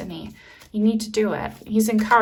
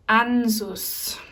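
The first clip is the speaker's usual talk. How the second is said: German accent. Shown as a demonstration. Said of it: "I'm saying that with a German accent".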